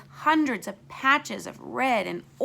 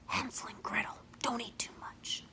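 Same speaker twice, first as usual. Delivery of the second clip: soft unvoiced warning whisper; 10 dB quieter than usual. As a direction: breathe a sly warning.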